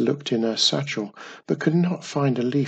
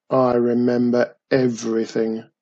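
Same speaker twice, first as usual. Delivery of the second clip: goblin grumbling; 3 dB louder than usual. Acted. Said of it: "the goblin grumbled".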